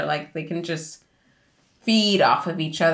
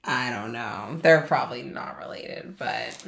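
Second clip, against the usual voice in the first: whispering; 7 semitones lower, 5 dB quieter than usual. Real, not acted. Aside to co-host.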